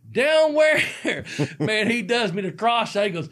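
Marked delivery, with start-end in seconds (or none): 0.1-0.8 high, loud puzzled question; confused down where, pitched way up; baffled. Retold or imitated. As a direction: blurt it out, totally lost. Confused reply, retold.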